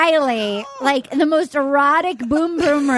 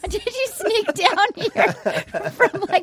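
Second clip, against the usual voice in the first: high mock polite voice; 4 semitones higher than usual. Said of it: "mocking the newcomer".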